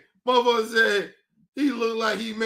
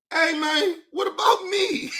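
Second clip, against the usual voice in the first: lightly voiced indignant plea, pitched up; Hulk Hogan; 4 semitones higher than usual. Voicing a dead celebrity in hell, mock complaint. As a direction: call out like a man feeling left out. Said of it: "Hulk Hogan probably in hell like".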